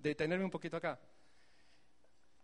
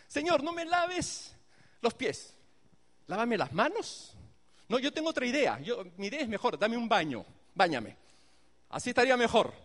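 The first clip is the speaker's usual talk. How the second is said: know-it-all suggestion; 3 semitones higher, 4 dB louder than usual. Acted. Peter voiced as know-it-all.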